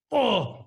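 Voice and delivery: high "oh" of a punch thrown; effortful cry. Retold or imitated. Surfer re-enacting punching out a fin, effortful cry.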